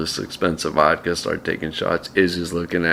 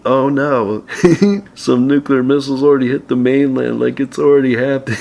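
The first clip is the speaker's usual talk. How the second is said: half-laughing alarm; mock panic; 7 semitones higher than usual. Retelling missile scare, mock panicked cry.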